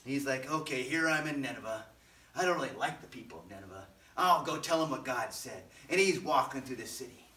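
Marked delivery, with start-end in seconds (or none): 0.5-5.6 mildly grumbling, low-pitched reluctance; a touch of sulky resignation; grumpy Jonah. Acted. Jonah arriving among people he dislikes, mild grumpy grumble. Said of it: "he's kinda grumpy".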